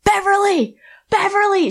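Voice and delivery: high, loud sing-song call of Beverly; teasing heel call. Retold or imitated. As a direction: taunt her like a cowgirl heel. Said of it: "and I go".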